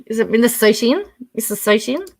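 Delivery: Minnesotan with a rising, unsure end; questioning pronunciation. Real, not acted. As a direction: check how to say Minnesotan, lifting the last syllable. Unsure how the word is said.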